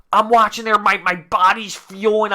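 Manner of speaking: normal talking voice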